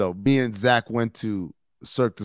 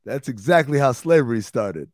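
louder, mock heckle; retold yell; 5 dB louder than usual. Heckler yells back at the comic from the back, retold yell. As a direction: call it out like a heckler. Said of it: "I yelled back at him".

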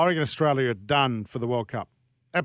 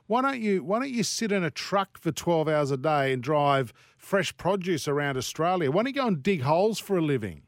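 yelling; 3 semitones higher than usual. Real, not acted. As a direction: rant it at full volume. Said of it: "Why are you yelling?".

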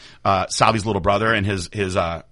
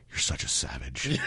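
quoted clerk; 10 semitones lower, 10 dB quieter than usual. Retold or imitated. Quoting the range clerk.

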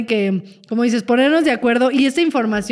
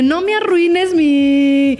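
anxious protest; 4 semitones higher, 3 dB louder, much slower than usual. Retold or imitated. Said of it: "me da como una ansiedad en el momento de".

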